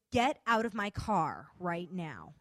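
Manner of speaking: slow, mildly stern dismissal; stern order. Retold or imitated. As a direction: imitate her ordering someone out, word by word. Retold sudden order to leave.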